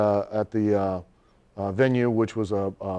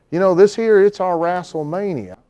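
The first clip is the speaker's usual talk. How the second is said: proud promoter; 7 semitones higher, 5 dB louder than usual. Retold or imitated. Promoter voiced, higher and louder.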